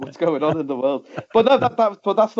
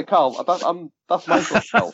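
Kevin Keegan impression; 4 semitones higher than usual. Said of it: "my mate Kevin Keegan".

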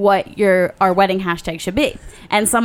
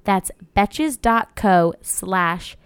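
ad read. Acted. Ad read closing.

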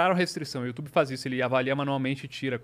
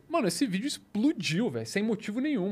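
excited; 6 semitones higher than usual. Real, not acted. Excited rant about video blowing up.

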